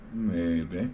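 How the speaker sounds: MAYBE drawn out, lifting at the end; coy maybe. Real, not acted. Streamer dodging a viewer's question about visiting the pad, coy. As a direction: dodge it with a teasing, rising MAYBE. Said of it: "Why you gotta say it like that".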